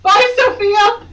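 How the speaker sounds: high, loud, slow singsong bye; mock farewell. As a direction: wave her off in a sarcastic singsong.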